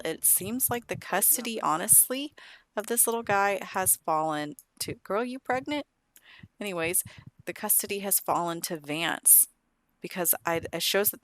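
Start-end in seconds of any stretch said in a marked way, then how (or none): 4.9-5.9 surprised. Real, not acted. Surprised remark at Sims character.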